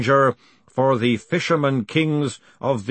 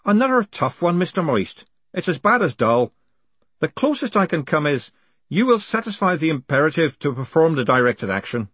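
a woman's voice, much higher; higher female voice; 5 semitones higher than usual. Acted. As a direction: sigh it out as a dry woman. Miss Dearheart voiced high.

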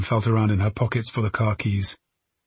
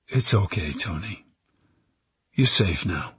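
gentle; 2 semitones lower than usual. A narrator's reading. Detective reassures the girl she is safe, gentle. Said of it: "Jackman's voice was gentle".

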